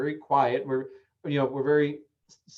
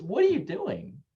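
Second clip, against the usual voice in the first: lighter curious take; 5 semitones higher than usual. Shown as a demonstration. Parent gently curious with a screaming child. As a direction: ask it gently, amused. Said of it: "the way you say it can change".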